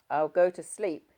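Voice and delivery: understated sulky warning; a hint of a grumpy threat; husband sulkily warning his wife, mildly voiced. A narrator's reading. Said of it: "he threatened".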